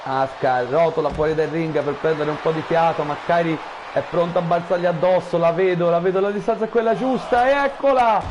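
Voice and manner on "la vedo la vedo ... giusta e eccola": excited commentary. Real, not acted. Anticipating the dive.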